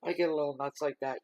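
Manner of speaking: high, loud, laughing admission; giggly self-mockery. Real, not acted. Reader laughing at her outburst, high and loud. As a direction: laugh it off at herself. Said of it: "Yeah, I'm crazy".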